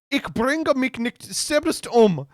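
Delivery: high, slow mock sobbing protest; a hammed-up tearful German chancellor; Angela Merkel crying. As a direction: plead it through fake tears. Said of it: "Angela Merkel began to cry".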